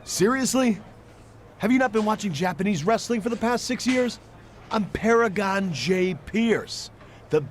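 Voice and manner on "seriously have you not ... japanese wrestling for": pitched way up in disbelief; can't believe he's never heard of you; higher, scornful seriously; incredulous. Acted. Rookie doesn't know who he is.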